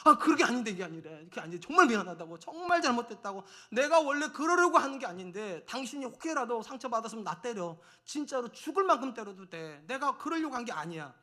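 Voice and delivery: acted frantic apology, bursts of loudness; profuse apology. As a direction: plead as if guilty of a deadly sin. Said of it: "죽을 죄를 지은 것처럼 미안하다고". (죽을죄를 지은 듯 다급히 사과하는 연기)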